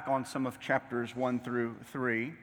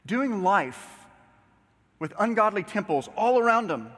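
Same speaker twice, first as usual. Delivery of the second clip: raised pulpit voice, building momentum; preacher cadence climbing higher; emphatic preaching; 9 semitones higher, 6 dB louder than usual. Acted. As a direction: paint the scene with mounting urgency. Preacher building picture of pagan Ephesus.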